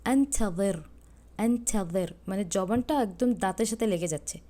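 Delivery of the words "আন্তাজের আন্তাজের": আন্তাজের with the tongue pressed to the teeth for the ظ; demonstrating the ظ sound. Shown as a demonstration. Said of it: "আমি উচ্চারণ কিন্তু অন্যভাবে করছি".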